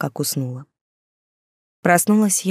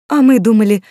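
drawn out; 4 semitones higher, 7 dB louder than usual. A narrator's reading. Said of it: "протянула тётка Люба".

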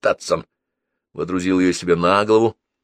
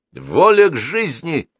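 put-on high, louder, swinging boy's answer; perky reply; 9 semitones higher, 5 dB louder, slower than usual. A narrator's reading. Boy revealing his secret, perky. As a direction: answer boldly, drawn out. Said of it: "бойко ответил мальчик".

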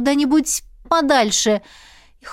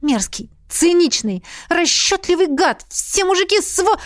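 climbing higher, indignant; rising rant; 7 semitones higher than usual. A narrator's reading. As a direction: build the insults up. Heroine rants.

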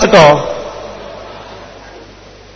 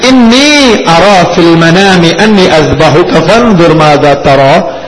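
tender Arabic recitation; 3 semitones lower, slower than usual. Retold or imitated. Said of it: "Nabi Ibrahim alaihissalam berkata kepada Nabi Ismail".

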